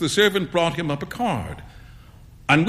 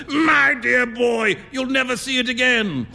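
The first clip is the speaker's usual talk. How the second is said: roaring amusement; 9 semitones higher than usual. A narrator's reading. Painter teases his friend over the coin, roaring amusement. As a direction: crow it as if bursting with laughter. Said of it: "he burst into a roar of laughter".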